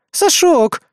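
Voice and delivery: high, loud call of Сашок; shouting name. Acted. Vika yells Сашок from window, loud. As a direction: yell Сашок from above.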